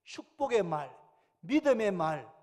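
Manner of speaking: emphatic preaching. Real, not acted. Preacher stresses key phrases.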